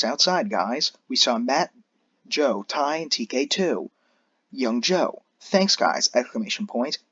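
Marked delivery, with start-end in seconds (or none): 5.4-6.1 excited shout. Acted. Cheerful thanks shouted out.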